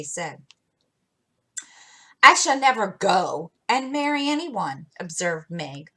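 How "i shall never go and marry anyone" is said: a hint of lofty dignity; dignified. Meg answering Jo's jibe, lightly dignified. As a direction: say it with prim composure. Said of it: "walking on with great dignity".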